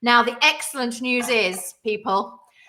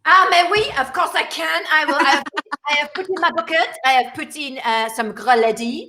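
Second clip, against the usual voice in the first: hammed-up French accent; 5 dB louder than usual. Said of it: "carry on with the French accent".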